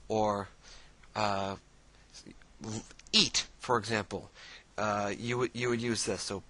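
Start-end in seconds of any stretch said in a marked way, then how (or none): 3.1-3.5 command. Shown as a demonstration. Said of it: "this is the commanding tense".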